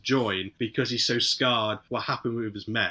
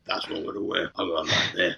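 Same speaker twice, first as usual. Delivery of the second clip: mock dopey actor; 8 semitones lower, 4 dB quieter, faster than usual. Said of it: "did you just go in your wardrobe like".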